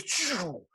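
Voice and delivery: high power-cut sound effect; imitated power-down noise. Telling how the power cuts out, imitated whoosh. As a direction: mimic the power cutting out. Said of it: "It goes".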